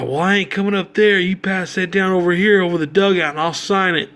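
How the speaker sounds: lightly voiced old ballplayer calling back; imitating the player. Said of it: "He's like".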